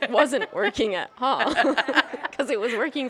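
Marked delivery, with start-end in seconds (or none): 0.1-1.5 air quotes. Real, not acted. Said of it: "put this all in air quotes".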